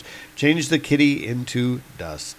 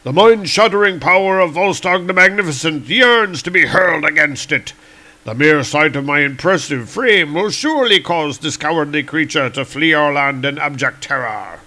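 louder, pompous boast; boastful Volstagg; 3 semitones higher, 3 dB louder than usual. Acted. Volstagg bragging to comrades, louder and pompous. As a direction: puff up and brag.

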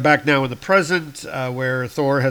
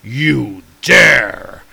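angry outburst; 9 dB louder than usual. Acted. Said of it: "And he's like".

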